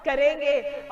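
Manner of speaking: chuckling little Krishna plotting; amused child god. Acted. Baby Krishna voiced amused, laughing. (हँसते हुए बाल कृष्ण)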